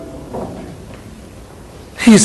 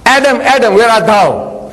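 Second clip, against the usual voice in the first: mild mock call; 3 semitones higher than usual. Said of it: "So he shouts".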